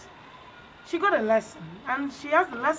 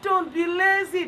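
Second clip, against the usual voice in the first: 1 emphatic moral; 6 semitones higher, 5 dB louder than usual. Shown as a demonstration. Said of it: "teacher stating a moral".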